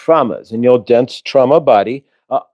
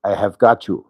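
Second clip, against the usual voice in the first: measured, lower-pitched reassurance; calming reassurance; 5 semitones lower than usual. Acted. The speaker reassuring his panicking inner child, calm and low. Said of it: "it has really calmed him down".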